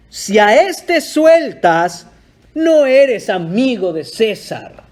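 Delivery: loud, slow threat; threatening shout. Retold or imitated. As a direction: threaten Pilate, shouting slowly. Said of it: "los judíos daban voces diciendo". (los judíos amenazan a Pilato a gritos, lento)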